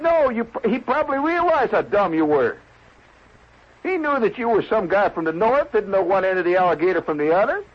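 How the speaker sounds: high-pitched exasperated explaining; exasperated scolding. Acted. Club member tells northern guest how dumb he was, exasperated.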